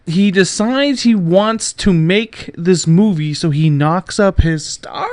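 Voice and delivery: slow, loud mock outrage. Real, not acted. Host ridiculing the director's choice, slow and loud. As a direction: spell the scandal out slowly.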